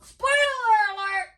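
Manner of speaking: high, loud announcer warning; announcing. Real, not acted. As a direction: call it out like an alarm. Warning listeners about spoilers.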